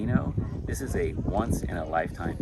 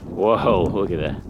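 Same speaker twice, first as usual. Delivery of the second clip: excited; 7 dB louder, slower than usual. Real, not acted. New burst of lava.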